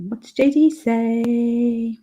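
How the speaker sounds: whispered aside. Real, not acted. Muttering to herself reading chat.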